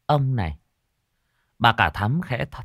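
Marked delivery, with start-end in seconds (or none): 0.1-0.6 soft coaxing. Acted. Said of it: "thẽ thọt".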